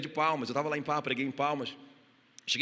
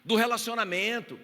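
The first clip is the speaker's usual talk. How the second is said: fiery preaching; 4 dB louder than usual. Acted. Pastor urging the congregation to stay united, preaching loud and fervent. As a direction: pound each phrase home to the church.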